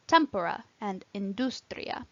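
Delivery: "tempora" and "industria" stressed on TEM and DUS; antepenultimate stress. Shown as a demonstration. Teacher showing the last rule, "tempora" and "industria" stressed third-last. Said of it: "third syllable from the end is stressed".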